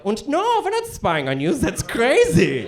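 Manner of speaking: hammed-up German accent, high opening; mock German accent. China answers the phone call, in a comic German accent. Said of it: "Why do you have a German accent?".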